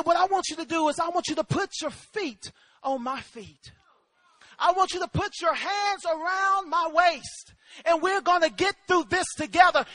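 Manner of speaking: measured, gentle instruction; steady, unhurried comforting voice; calm fatherly reassurance. Retold or imitated. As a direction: talk a frightened child through it. Father calmly instructing frightened son.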